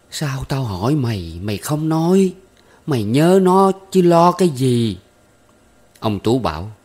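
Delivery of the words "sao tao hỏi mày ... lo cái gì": a mother's sharp, rising scold, louder at the end. Acted. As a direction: scold him as his mother, climbing higher. Mother scolding her son.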